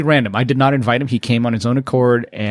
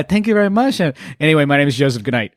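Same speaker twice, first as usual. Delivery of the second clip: put-on Asian accent; faster than usual. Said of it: "just in the accent".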